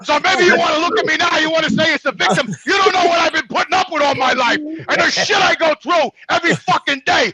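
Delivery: heated, shouting rant; venting real rage at her; furious, defending himself; real anger. Real, not acted. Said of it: "I'm fucking pissed off".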